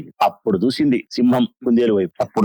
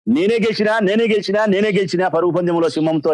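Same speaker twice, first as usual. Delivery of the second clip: high, gloating cries of victory; boastful donkey shout; 6 semitones higher than usual. Acted. Donkey brags to the silent lion, high gloating shout. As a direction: crow about winning like a silly donkey. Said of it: "నేనే గెలిచినా అని చెప్పి గాడిద ఎంత కేకలేస్తాంది".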